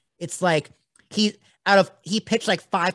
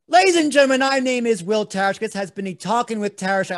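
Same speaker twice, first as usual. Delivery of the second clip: big announcer outro rushed on one breath; all in one breath; 4 semitones higher, 5 dB louder than usual. Shown as a demonstration. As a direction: push it all out without pausing to breathe. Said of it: "let's see if I can do it all in one breath".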